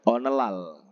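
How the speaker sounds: "Onelal" pronounced o-neul-lal; shown reading. Shown as a demonstration. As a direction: model "Onelal" on its own, N first, then a doubled L. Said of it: "bacanya itu onelal".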